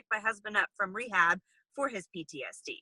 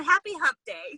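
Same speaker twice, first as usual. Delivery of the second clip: repeated louder, brighter; 9 semitones higher, 4 dB louder than usual. Real, not acted. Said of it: "I said".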